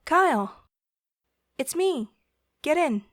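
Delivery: bright high call out the window. Acted. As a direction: shout to him across the lot. Chelsea calls out from car.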